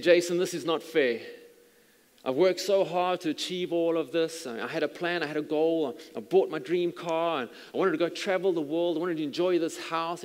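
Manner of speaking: dying friend tells the pastor it's not fair, mildly angry; retold anger. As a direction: voice the dying friend's bitter protest. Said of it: "He was really angry".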